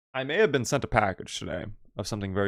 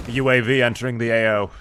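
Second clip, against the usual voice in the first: lightly voiced military radio announcer; a louder take on a killstreak callout; Call of Duty announcer; 5 dB louder than usual. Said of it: "the Call of Duty kill streak voice".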